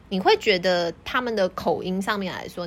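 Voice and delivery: ordinary talk, nothing marked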